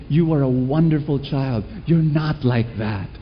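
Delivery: put-on tender reassurance to a child. Shown as a demonstration. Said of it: "in the same breath, be able to say".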